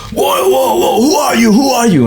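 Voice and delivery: very high, astonished imitation; Steranko impression. Comic artist demanding a fan's identity, astonished high voice. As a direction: pitch it way up, bowled over by a stranger. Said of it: "And he's like".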